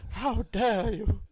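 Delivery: slow outraged how dare you, lightly put on; half-hearted impression of an outraged activist; slow mock outrage; mock Greta Thunberg. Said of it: "Greta Thunberg whinging".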